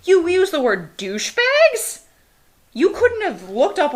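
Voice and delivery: high, loud disbelieving question; can't believe the word choice; incredulous. Real, not acted. Outraged at the lyric.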